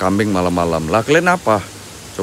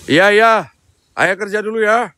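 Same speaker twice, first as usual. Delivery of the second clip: doting parent voice; 12 semitones higher, 6 dB louder than usual. Pretend. Talking to the goat like a child.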